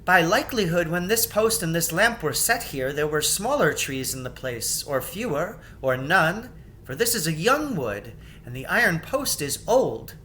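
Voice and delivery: put-on thoughtful young queen reasoning aloud; Queen Lucy musing. Queen Lucy speaks in story.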